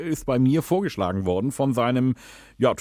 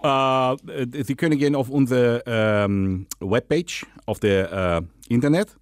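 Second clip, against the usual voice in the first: put-on Dutch accent, lisping. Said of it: "rede, lispeln und Holländisch".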